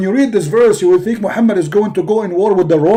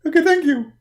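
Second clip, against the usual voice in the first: 1 whiny prophet; 6 semitones higher than usual. Acted. Muhammad thanks.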